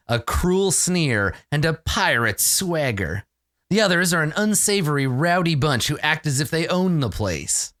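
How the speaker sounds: lightly dramatic boxed-text reading; measured, emphatic scene-setting; game master narration. A narrator's reading. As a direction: set the scene like a storyteller. Reads boxed scene text aloud.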